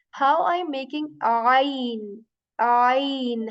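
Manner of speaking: ain squeezed from the middle of the throat; choked ain. Shown as a demonstration. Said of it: "this is like a kind of choking sound".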